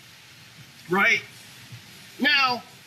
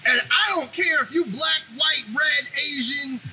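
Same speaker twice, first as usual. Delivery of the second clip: heated rant; 5 semitones higher, slower than usual. Real, not acted. Heated rant listing groups.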